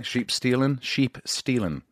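put-on trying out a Scottish accent, unhurried; lightly imitated Scottish accent; attempted Scottish. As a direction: sound out the phrase in amateur Scottish. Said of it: "That's Scottish?".

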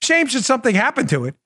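lightly voiced mobster threat; a hint of wiseguy menace; Dorsey as a shakedown artist, lightly played; mob enforcer. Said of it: "sounded like every mob enforcer".

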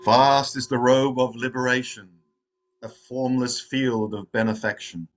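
measured, solemn recital of a verse; verse recitation. Real, not acted. Opening a meditation with the Verse of the Robe, recited. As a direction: recite it line by line, slowing into the close. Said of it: "reciting one of the Zen Buddhist".

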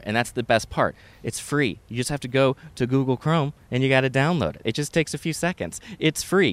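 chatty, lightly salesy sponsor read; podcast ad read. Acted. Host tells listeners about a money-saving tool, chatty ad read. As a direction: read the sponsor copy like casual banter.

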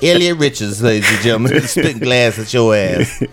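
lightly voiced announcer, drawing out the catchphrase; sportscaster voice. Friend re-enacting the movie's commentator, light sportscaster voice. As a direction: present it like a mock sports broadcast. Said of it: "sportscaster voice he does in that".

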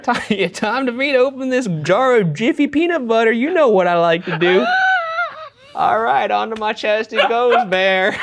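high, loud, gleeful creep; creepy eager voice. Pretend. Creepy man eagerly preparing peanut butter, high. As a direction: relish every word like a creep. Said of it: "just being like".

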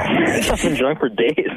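said through laughter; laughing. Real, not acted. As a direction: laugh while saying it. Laughing joke.

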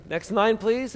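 mock cashier, lilting up high at the end; cashier call. Cashier repeats her call to the line, high and lilting. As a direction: sing out the call like a bored clerk.

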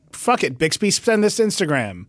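casual order to a voice assistant; mildly bossy, not really yelling; offhand command. Acted. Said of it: "sound like you're yelling at a butler".

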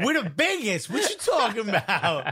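a touch of a smug Roman before the fall, laughing; playing a doomed Roman boasting of the empire; mock Roman boast. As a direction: brag about the riches, laughing at yourself. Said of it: "people were saying that about Rome".

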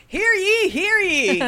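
high, loud herald call; town crier. Acted. Court crier opening session.

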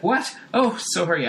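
hammed-up flustered housewife; startled sitcom wife. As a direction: jump as if caught out.

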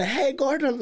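put-on high-pitched chummy call to an old pal; over-familiar greeting. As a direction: hail him like you've known him for ages. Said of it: "like if I knew him for a long time".

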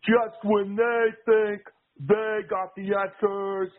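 hammed-up Roddy Piper swagger; Roddy Piper impression. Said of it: "and Piper goes".

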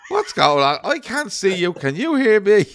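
high and loud, baffled; confused shouting. Retold or imitated. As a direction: call out, lost on the call. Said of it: "they're like".

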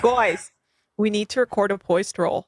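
lightly voiced Mayor of Easttown Philly accent; Delco accent impression. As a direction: Kate Winslet's Easttown accent as a podcaster. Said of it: "my impression of Mayor of Easttown if she was a podcaster".

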